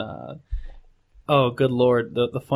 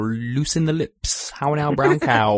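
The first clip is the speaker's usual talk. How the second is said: slow, carefully shaped diction drill; prim precise elocution; slower than usual. Shown as a demonstration. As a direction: enunciate like a voice coach. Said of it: "that voice thing you did".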